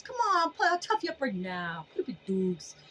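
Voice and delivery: scare off the dark with a cocky dare; hammed-up boxing challenge then sweet boo boo; mock fighter taunt. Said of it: "That's what I tell the dark energies".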